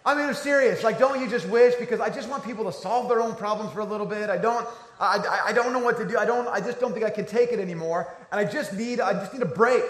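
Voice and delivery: lightly voiced eager friend; a hint of the friend's cheerful plea. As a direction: voice the friend wishing for a break, smiling. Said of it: "she's saying this like a smile".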